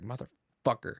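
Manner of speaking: salty muttered curse, imitating self at the game. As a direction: curse the game under your breath, drawn out. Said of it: "I just get fucking salty".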